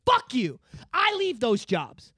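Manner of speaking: indignant outburst. Retold or imitated. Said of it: "It sounds like you're like".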